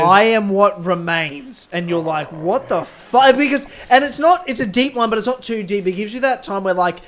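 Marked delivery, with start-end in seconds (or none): 0.0-1.7 slow, drawn-out dramatic delivery, louder; weighty, emphatic villain line reading; dramatic Anakin. Acted. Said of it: "say it dramatically". 2.3-3.4 slow, loud, drawn-out shock; acted fan astonishment; stunned disbelief.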